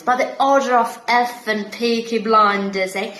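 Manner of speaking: Thomas Shelby line in a Brummie accent; Peaky Blinders gangster, Brummie vowels. Shown as a demonstration. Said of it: "Brummie accent".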